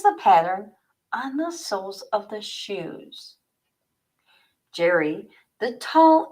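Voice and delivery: measured read-aloud narration voice; story narration. A narrator's reading. Author reading her mystery novel to live viewers, story narration. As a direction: set the scene like an author reading chapter one.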